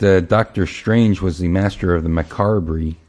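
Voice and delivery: "macabre" said as ma-car-bree; mispronounced macabre. Shown as a demonstration. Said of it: "I never heard macabre".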